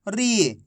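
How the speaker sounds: री held long and let fall; drawn-out long ī. Shown as a demonstration. Teacher modelling रा plus matra for class, drawn out. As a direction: stretch the vowel of री. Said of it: "खींच खींच के इसका उच्चारण करना है".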